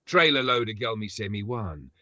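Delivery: chanted lyrics in Jamaican patois; light Jamaican patois chant; Jamaican toasting. Retold or imitated. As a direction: deliver it like a dancehall DJ. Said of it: "Here's how a dancehall artist shell it out".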